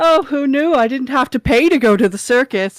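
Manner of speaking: high, giggling, laughing all through the line. Voicing a character mocking a fall during a fight: laughing while speaking. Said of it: "She just laughs and goes".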